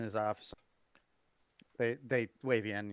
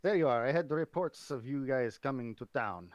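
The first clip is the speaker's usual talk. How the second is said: admiral voice kept normal. Acted. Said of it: "just gonna make it sound normal".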